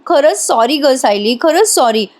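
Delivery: fake dramatic apology. Priya fakes an apology to burnt Sayali, lightly hammed-up. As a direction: ham up a false apology. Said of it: "Priya लगेच नौटंकी करत म्हणते".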